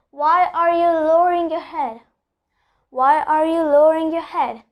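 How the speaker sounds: "lowering" with its R sounded; R before vowel pronounced. Shown as a demonstration. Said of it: "R is before a vowel, so I'm pronouncing the R".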